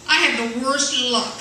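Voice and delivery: slow, drawn-out woe-is-me line; mock dramatic lament. Telling a friend who said break a leg, slow mock despair. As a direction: ham up your bad luck, slowly. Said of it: "I told him".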